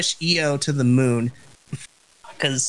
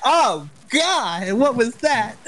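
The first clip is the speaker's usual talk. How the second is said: shocked; 8 semitones higher, slower than usual. Retold or imitated. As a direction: react like you can't believe it. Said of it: "I'm just like".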